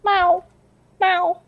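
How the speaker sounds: high, repeated mock meows; high cat meows. Owner imitating her cat meowing until she comes home, high mock meows. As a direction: mimic a cat crying to be let in. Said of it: "He goes".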